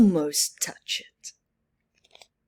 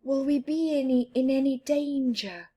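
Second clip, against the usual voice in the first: scared question; 6 semitones higher, faster than usual. Acted. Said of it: "Amal is scared".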